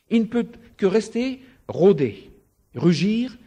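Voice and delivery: high, loud preaching; fervent preaching. Acted. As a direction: drive the point home from the pulpit. Preaching at full force.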